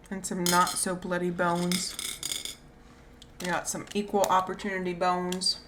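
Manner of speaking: whistling on the s sounds; lisping whistle through the teeth; no front teeth. Real, not acted. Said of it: "I keep whistling when I talk".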